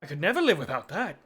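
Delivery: mildly melodramatic vampire lament; lightly voiced, wounded vampire; heartbroken vampire. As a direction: mourn a betrayal as a theatrical vampire.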